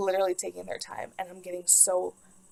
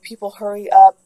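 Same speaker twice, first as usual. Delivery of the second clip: much louder, urgent retold demand; impatient mock shout; 17 dB louder than usual. Woman in labor to nurses taking their time, impatient shout.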